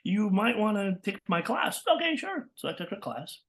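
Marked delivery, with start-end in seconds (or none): 0.0-1.8 slow, drawn-out praise; imitated teacher. Teacher praising a newcomer, slow imitated approval. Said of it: "And she says". 1.9-2.5 very high, quick yes; acted eager agreement. Student accepting the class offer, high eager reply.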